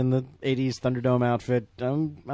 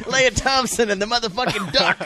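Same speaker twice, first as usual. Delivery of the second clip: laughing; 8 semitones higher than usual. Real, not acted. Laughing at the duck scene.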